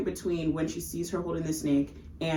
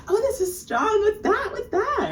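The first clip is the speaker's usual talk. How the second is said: way higher and louder, choking on the taste; hammed-up disgust; 4 dB louder than usual. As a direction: squeal it like the drink burns. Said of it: "You can tell she fucking hates it".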